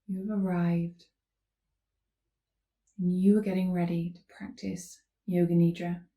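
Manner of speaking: unhurried calm cueing with long pauses; guided yoga instruction. Real, not acted. Yoga teacher leading listeners into gentle stretches, calm guiding voice. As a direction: guide them gently through each movement.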